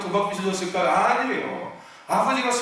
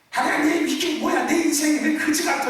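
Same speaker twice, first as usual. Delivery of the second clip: whining complaint; 7 semitones higher than usual. Retold or imitated. Believer complaining to God about life, high whiny gripe. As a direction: grumble at God like a spoiled child. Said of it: "맨날 징징징징징징징 짜지 말고".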